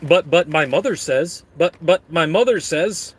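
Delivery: stammering Waterboy impression; goofy put-on character voice; Bobby Boucher. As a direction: stutter it like a sheltered movie simpleton. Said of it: "like Adam Sandler into Waterboy".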